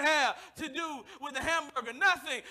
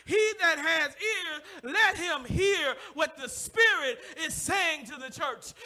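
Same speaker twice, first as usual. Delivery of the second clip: slow, loud, ringing scripture; slow full-force preaching of scripture; 4 dB louder, slower than usual. Acted. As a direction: proclaim it slowly to the congregation.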